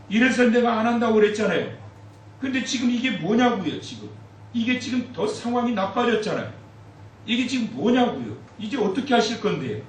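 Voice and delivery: 하나님께 억울함을 터뜨리듯 따져 묻기; 따지는 항의. Acted. 모세가 하나님께 따짐. (하나님께 따지는 모세, 격앙된 항의 목소리)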